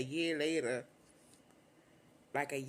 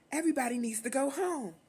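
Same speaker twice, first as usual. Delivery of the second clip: higher, louder stern command; stern order; 8 semitones higher, 4 dB louder than usual. Retold or imitated. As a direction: lay down the law. Boyfriend ordering everyone out.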